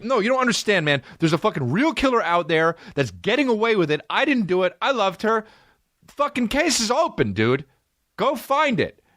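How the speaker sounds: high, yelling defendant, furious and indignant; imagined courtroom outburst. Pretend. Wrongly accused man yelling at the court, furious. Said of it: "I'm like".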